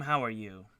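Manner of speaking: words round a bite of food; chewing while talking. Real, not acted. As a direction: talk while chewing something. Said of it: "Sorry, I'm chewing my".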